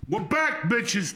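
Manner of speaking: loud, high, pumped shout to the audience; hyped comeback. Real, not acted. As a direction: burst back in with big energy. Hosts return from ad break.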